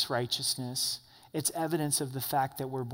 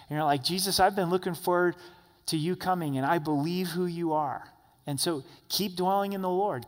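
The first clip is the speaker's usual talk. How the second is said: louder, driving preacher's voice; fervent preaching; 3 dB louder than usual. Acted. Pastor urging the Wednesday group, fervent preaching. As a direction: press each point home from the pulpit.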